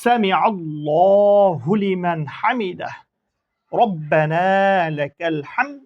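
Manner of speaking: slow, drawn-out Arabic recitation; prayer recitation. Shown as a demonstration. Teacher recites the prayer for students, slow and drawn out. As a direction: chant each word slowly and clearly for learners. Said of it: "আবার বলি".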